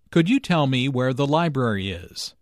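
emphasize "library" as the key information; stress on LIBRARY. Shown as a demonstration. Teacher showing an indirect question, stress on "library". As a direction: put the main stress on "library". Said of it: "Notice that library is stressed here".

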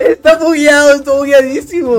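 high, loud, slow laughing complaint. Real, not acted. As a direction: laugh it out in disbelief. Laughing at the glitch. (riendo a carcajadas)

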